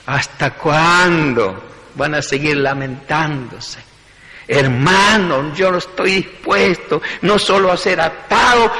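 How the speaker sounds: Paul rebukes the mourners, building to bold conviction; fed-up resolve. Retold or imitated. Paul to his weeping friends, understated exasperation then resolve. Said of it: "Pablo ya estaba bufando".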